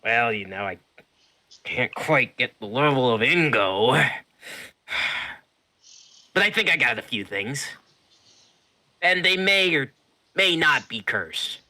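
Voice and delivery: high, loud merchant voice; shopkeeper voice. Acted.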